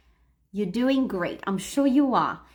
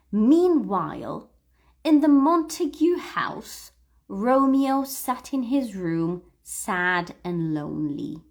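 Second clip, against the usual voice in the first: read-aloud model. Shown as a demonstration. Teacher reading a story for students to repeat, emphatic model reading.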